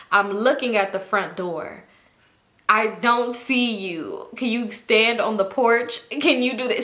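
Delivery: slow, deliberate mimicked phone demand; strict, suspicious mother. Cousin's strict mom calling the house, slow suspicion. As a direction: drag out each word as you check up.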